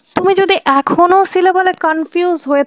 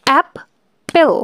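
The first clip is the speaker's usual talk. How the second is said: অ্যাপেল said very slowly, split into two beats; clapped syllables; much slower than usual. Shown as a demonstration. Teacher demonstrating the clap method, very slow. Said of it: "তোমরা এরকমভাবে করতে পারো".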